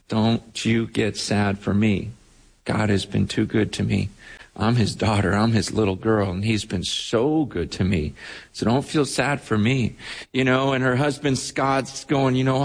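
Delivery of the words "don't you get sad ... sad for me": lower, measured, consoling quote; gently reassure, in a low register; tender reassurance. Retold or imitated. Patient consoling her sad pastor, tenderly.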